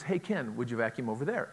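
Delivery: straightforward ask, no hinting; just ask him directly; plain direct request. Shown as a demonstration. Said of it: "That is".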